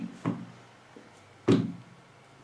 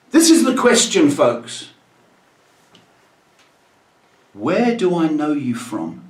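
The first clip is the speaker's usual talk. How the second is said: high-pitched man's voice. Retold or imitated. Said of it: "in this high-pitched voice".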